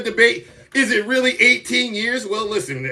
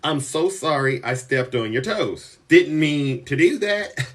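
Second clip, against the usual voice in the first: softer, lower sheepish sorry; mock apology; 5 semitones lower, 4 dB quieter than usual. Zeus acting out a humble apology to a viewer, mock sheepish. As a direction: lightly act out a humble apology. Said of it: "I'll be the first one to say".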